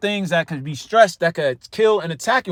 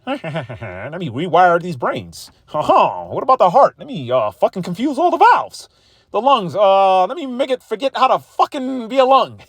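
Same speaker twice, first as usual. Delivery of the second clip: gleeful villain. Acted. Stress personified taunting the listener's body, gleeful villain voice. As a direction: stress as a chuckling saboteur, laughing through the lines. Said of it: "That nigga could get in you".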